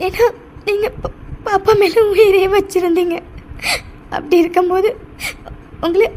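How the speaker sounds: halting, tearful remorse; crying. Acted. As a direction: apologise haltingly through tears. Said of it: "நீ இப்படி அழுறது". (அழுதபடி தடுமாறி மன்னிப்புக் கேட்கும் குரல்)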